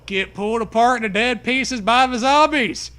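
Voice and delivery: high loud laughing verdict. Acted. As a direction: crack up mid-line.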